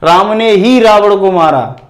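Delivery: "ही" said with weight, falling after it; stress on ही. Shown as a demonstration. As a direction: press the word "ही". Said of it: "उस पर हम जोर दे के बोलते हैं".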